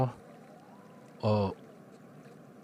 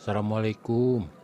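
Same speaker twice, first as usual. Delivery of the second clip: calling out; 4 semitones higher, 6 dB louder than usual. Acted. Calling out at the door.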